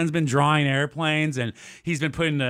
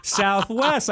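a lightly done intercom announcement, drawn out slowly; imitating the flight attendant; 2 semitones higher, much slower than usual. Retelling the Southwest attendant's announcement, lightly imitated. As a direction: play the flight attendant on the mic, a touch slow. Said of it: "The flight attendants come on".

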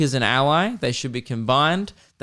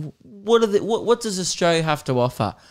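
higher, questioning foreign tourist voice; puzzled overseas tourist; 6 semitones higher than usual. Retold or imitated. Mocking an overseas male tourist, higher and puzzled. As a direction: pitch up like a lost visitor asking. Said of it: "an overseas male going".

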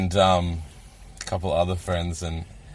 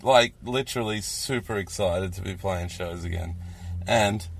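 slurring slightly, wasted on wine; 3 dB quieter than usual. Real, not acted. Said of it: "I am literally so wasted right now".

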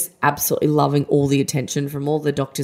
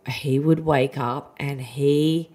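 whisper; 3 dB quieter, much slower than usual. Real, not acted. Describing her son's rage.

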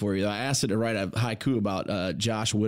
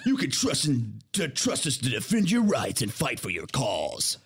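promo read through laughter; slower than usual. Shown as a demonstration. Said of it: "that's our promo material".

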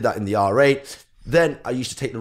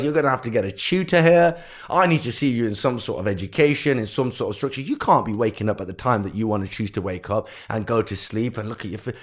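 fuming mum. Retold or imitated. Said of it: "My mum was fuming".

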